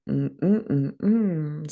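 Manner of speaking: short hummed bass notes; imitated bass hum. Artist showing what the beat's bass does, imitated bass hum. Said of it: "the bass is going".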